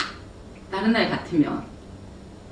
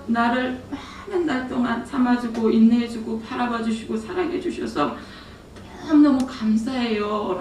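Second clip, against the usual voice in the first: tearful prayer; 4 semitones higher than usual. Retold or imitated. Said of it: "너무 많이 울었어요".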